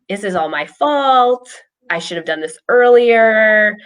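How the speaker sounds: retold spiral of self-reproach; self-blaming thoughts. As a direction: stretch the last word in mock anguish. Voices her anxious self-blaming thoughts.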